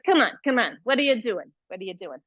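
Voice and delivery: lightly imitated New York accent. Yoga teacher imitating her New York friend to the class, New York accent. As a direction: mimic a New Yorker friend, quick and insistent. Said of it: "She's from New York".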